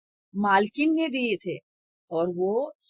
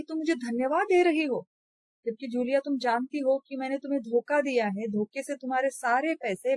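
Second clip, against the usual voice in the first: mock shouting scold; 4 semitones higher than usual. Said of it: "ऊंचे स्वर में चिल्लाने लगते हैं".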